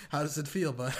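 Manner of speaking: high, loud teasing through laughter; laughing taunt. Retold or imitated. Needling a buddy over a game insult, laughing. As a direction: crack up while replaying your own taunt.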